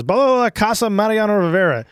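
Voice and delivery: bluffing in fake Spanish; mock gibberish Spanish; mocking blah blah. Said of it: "all he says is".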